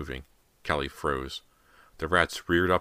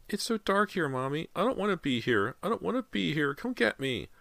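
put-on high little-boy pleading; frightened child; 14 semitones higher than usual. A narrator's reading. Trapped boy begs Mommy to get him, high and scared.

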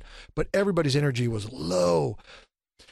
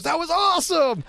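much higher, louder burst of delight; excited praise; 14 semitones higher, 4 dB louder than usual. Retold or imitated. Tom Hanks praising the sketch backstage, high excited cry. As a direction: gush it like a thrilled star. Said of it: "Tom jumped up and goes".

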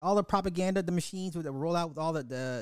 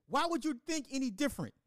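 laughing; 10 semitones higher, 4 dB quieter than usual. Real, not acted. Laughing rhetorical question.

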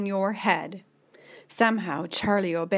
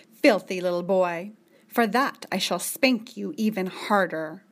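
stern scolding. Acted. Julie's stern lines to Charlie.

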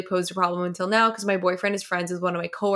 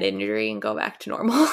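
laughing while reading; 11 semitones lower than usual. Real, not acted. Reading funny comment aloud.

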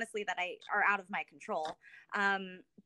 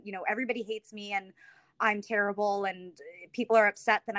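retold panic. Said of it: "And I was like".

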